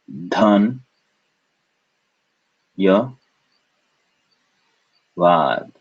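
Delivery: "Dhan, ya, vad" with long gaps between syllables. Shown as a demonstration. Teacher breaking up thank you, "Dhan, ya, vad" in separate beats. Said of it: "So we break this up".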